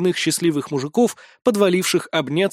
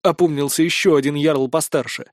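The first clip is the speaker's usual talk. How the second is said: ordinary delivery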